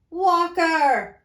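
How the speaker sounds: put-on high young boy's hello. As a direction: pitch up to a child. Boy voiced.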